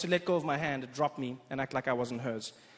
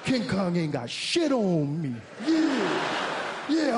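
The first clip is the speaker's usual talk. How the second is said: higher, louder put-on black American slang, slow and cocky; practised black American voice; 8 semitones higher, 4 dB louder, much slower than usual. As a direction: ham up a swaggering black American accent.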